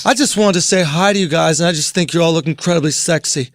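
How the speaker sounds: put-on gay Boston accent. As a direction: do a low, flirty Boston man. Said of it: "he has a Boston accent".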